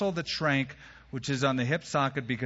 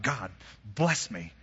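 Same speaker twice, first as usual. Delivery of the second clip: slow, low appeal to God; grave, imploring prayer; earnest plea; 5 semitones lower, slower than usual. Acted. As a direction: plead slowly, dropping the pitch. Jacob now pleads with God.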